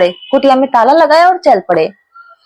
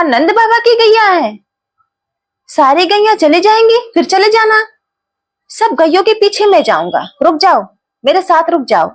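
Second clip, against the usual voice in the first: put-on boy's voice; 3 semitones higher than usual. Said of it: "बच्चे ने कहा".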